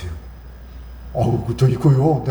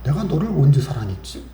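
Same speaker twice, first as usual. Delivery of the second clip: God rebuking; 5 semitones lower, 4 dB quieter than usual. Retold or imitated. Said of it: "이러시는 거예요". (낮고 느리게 꾸짖는 하나님 목소리)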